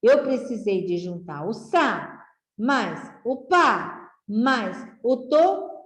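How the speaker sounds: teacher splitting the word into syllables. Shown as a demonstration. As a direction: sound out sa, pa, to one at a time. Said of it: "Para formar essa palavra sapato".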